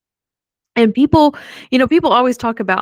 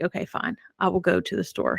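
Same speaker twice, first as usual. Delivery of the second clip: grudging whisper; 2 semitones lower, 6 dB quieter than usual. Retold or imitated. Mother gives in late night.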